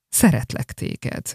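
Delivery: slow, soft whisper. Acted. Dying father whispering his love to his youngest son. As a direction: breathe it out like a dying man.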